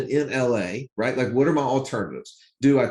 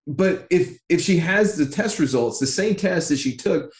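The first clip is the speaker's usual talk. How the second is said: retold protest, pitched up and insistent; higher, emphatic pleading with an official; exasperated arguing; 5 semitones higher than usual. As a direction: argue the case in disbelief. Retold argument with government official.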